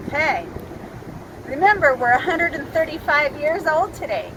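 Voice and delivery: muffled behind a face mask; talking through a mask. Real, not acted. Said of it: "it's so hard to talk with the mask on".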